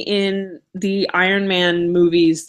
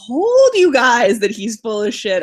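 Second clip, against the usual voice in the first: Namor; 5 semitones higher than usual. Retold or imitated. Acts out Namor gloating.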